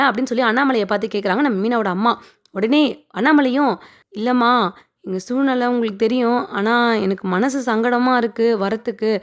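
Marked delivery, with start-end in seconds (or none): 4.1-9.1 mildly hesitant, retold reply; understated reluctance. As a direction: lightly act out a reluctant refusal, halting between phrases. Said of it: "தயங்கினே பேசுறாரு".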